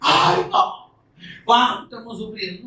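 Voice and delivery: burla de lamento. Retold or imitated. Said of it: "Volverán a Sión llorando".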